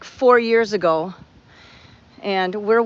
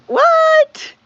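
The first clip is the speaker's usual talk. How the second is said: sudden high shocked yelp; squeaked what; startled what; 8 dB louder than usual. Retold or imitated. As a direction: jolt up in alarm on the word. Retelling friend choking at dinner.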